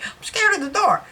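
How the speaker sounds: high-pitched imitation of a scared kid; mock childhood fear. Child confessing door fear to grandmother, mock-scared.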